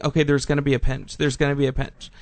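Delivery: rough imitation Russian accent. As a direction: put on a not-so-great Russian accent. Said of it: "that was a Russian accent".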